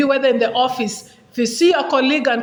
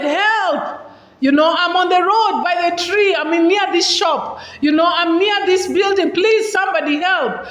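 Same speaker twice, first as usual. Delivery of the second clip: calling for help, pitched higher; mock shout for help; 4 semitones higher than usual. Shown as a demonstration. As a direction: call out urgently to passersby. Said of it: "You've shouted".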